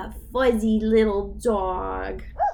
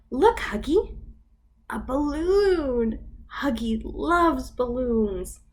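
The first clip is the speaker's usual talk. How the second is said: storybook voice, lively for little ones; reading to children. Acted. Teacher reads the picture book to toddlers. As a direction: read it like circle time.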